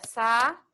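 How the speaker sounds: Sa-u-de split into three slow separate syllables. Shown as a demonstration. Teacher splitting Sa-u-de for students, syllable by syllable. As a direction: break Sa-u-de apart for the class. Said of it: "vai ficar em sílaba separada".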